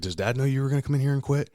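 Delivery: acted indignant challenge; retold confrontation.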